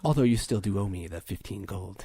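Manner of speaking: low, faintly sultry reminder; lightly sultry. Acted. Android reminding her repairer of the debt, lightly sultry. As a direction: keep it low with a hint of sultriness. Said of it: "I'll do a sultry voice".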